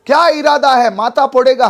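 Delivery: mock threatening shout. Acted challenge in the story.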